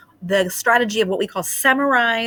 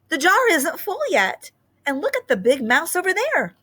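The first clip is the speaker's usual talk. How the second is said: little mouse; 10 semitones higher than usual. Acted. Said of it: "said one of the mice".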